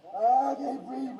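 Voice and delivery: real breathless panic; desperate gasp. Real, not acted. Restrained man struggling to breathe.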